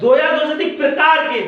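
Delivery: corrective emphasis landing on प्रकार; दो या दो से अधिक, then a firm प्रकार के; stress on प्रकार. Shown as a demonstration. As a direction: lean on प्रकार as the missing word. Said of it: "दो या दो से अधिक नहीं".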